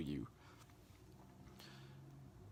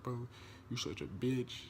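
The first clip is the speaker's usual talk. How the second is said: mock insult, raised pitch; cursing buyer; 4 semitones higher than usual. Buyer calling the seller names over the shoes, cursing. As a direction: imitate an annoyed buyer cursing. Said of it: "like, cursing".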